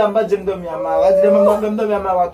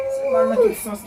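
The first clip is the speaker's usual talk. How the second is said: high outcry. Real, not acted. High outcry about the smell.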